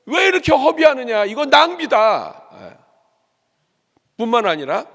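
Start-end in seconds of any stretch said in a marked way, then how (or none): 0.1-2.5 high, loud indignant outcry, stretched at the end; angry rebuke. Acted. Preacher voicing onlookers angry at the wasted perfume, loud indignant rebuke. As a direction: shout it as an outraged accusation. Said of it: "사람들이 막 화를 내면서 얘기했다고".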